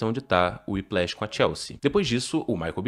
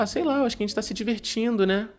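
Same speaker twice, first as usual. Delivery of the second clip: mock wife voice; 11 semitones higher than usual. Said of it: "Ela fala".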